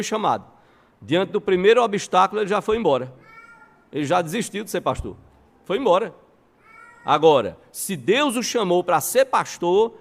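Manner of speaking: loud, high, emphatic retelling of a firm verdict; Charles Spurgeon/public. Retold or imitated. Preacher voices the pastor answering his student, emphatic and loud. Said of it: "Ele disse".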